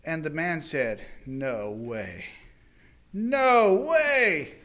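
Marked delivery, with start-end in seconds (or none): 1.2-2.2 low, soft disbelief; barely believe what you hear; stunned hush. Acted. Master hearing the report, low stunned murmur. 3.1-4.5 high, loud disbelief; outraged exclamation. Acted. Master hearing the report, loud outraged disbelief.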